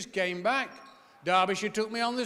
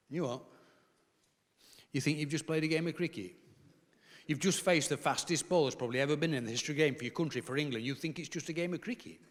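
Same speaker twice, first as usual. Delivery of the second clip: dad's incredulous rant; 3 semitones lower, 5 dB quieter, faster than usual. Retold or imitated. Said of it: "He went off on".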